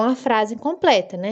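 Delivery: normal talking voice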